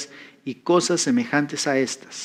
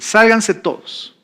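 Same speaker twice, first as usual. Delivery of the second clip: slow, raised order to clear the room; firm command; 6 semitones higher, 3 dB louder, slower than usual. Retold or imitated. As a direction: order everyone out, firmly and slowly.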